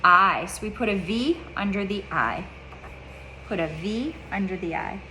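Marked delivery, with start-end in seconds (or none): 0.0-0.5 loud, clear model answer. Shown as a demonstration. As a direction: call the letter out strong and loud. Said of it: "I can't hear you".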